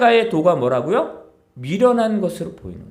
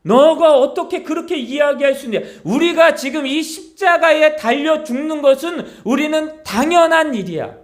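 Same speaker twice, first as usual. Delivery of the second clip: higher and louder, an indignant robber scolding his partner; rebuking robber; 6 semitones higher, 3 dB louder than usual. Acted. A robber on the cross rebukes the other robber, indignant and raised. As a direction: tell him off, you both deserve this. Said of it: "그 한 강도가 또 이야기합니다".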